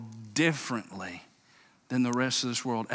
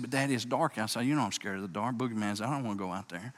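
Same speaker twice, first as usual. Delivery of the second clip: put-on scared little boy; 3 semitones lower, 6 dB quieter, faster than usual. Scared boy answering his father.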